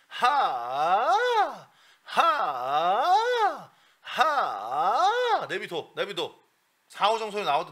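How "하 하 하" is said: "하" swooped up into a light falsetto; falsetto ha demo. Shown as a demonstration. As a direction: model the falsetto "하" slowly. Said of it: "하게 넣어". (가성 "하" 시범)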